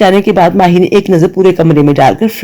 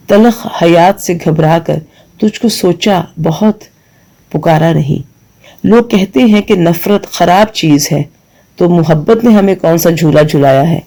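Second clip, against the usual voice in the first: poem recitation. Acted. Recites verse slowly.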